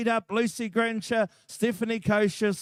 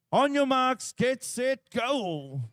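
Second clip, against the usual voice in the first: starter's call; 6 semitones higher, slower than usual. Real, not acted. Starter calls the race.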